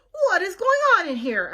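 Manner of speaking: demanding. Acted. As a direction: storm in wanting answers. Eugenia bursts into the room.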